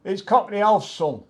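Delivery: calling across the pub, loud and high; shouted out. Retold or imitated. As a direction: shout the name across a noisy bar. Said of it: "somebody shouted out".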